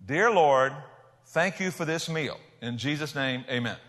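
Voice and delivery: measured, deliberate prayer to be copied; simple model prayer. Shown as a demonstration. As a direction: spell out a simple mealtime prayer phrase by phrase. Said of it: "Let me train you on how to thank God".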